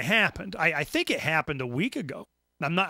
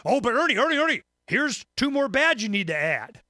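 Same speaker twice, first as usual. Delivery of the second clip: louder, higher nagging mock voice; mock eager listener; 5 semitones higher, 4 dB louder than usual. Imagined listener sending more bads, mock nagging. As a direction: tease the listener's insistence. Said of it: "You're gonna say".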